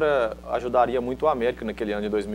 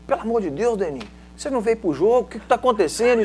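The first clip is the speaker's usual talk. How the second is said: imitating a coach scolding a player, higher; raised, exasperated retold telling-off; mock scolding; 7 semitones higher than usual. Coach chewing out the player at halftime, mock angry scolding. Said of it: "Xingando ele lá".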